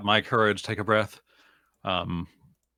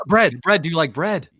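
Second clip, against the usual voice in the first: high, loud, eager questioning; eager repeated words, pitched up; excited offer; 7 semitones higher, 7 dB louder than usual. Acted. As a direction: burst out with it, delighted by the idea. Excited character asks Minotaur.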